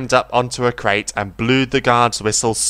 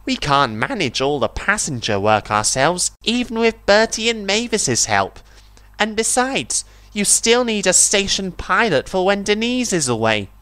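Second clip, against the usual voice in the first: much higher railcar voice; timid interruption; Daisy's voice; 9 semitones higher than usual. A narrator's reading. Daisy interrupts the Fat Controller, high voiced.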